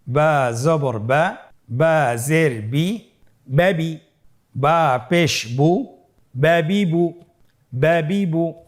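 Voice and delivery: drawn-out syllables in an even chant; stretched, measured letter-by-letter recitation; slow spelling drill. Shown as a demonstration. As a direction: lead learners through each sound, very slowly.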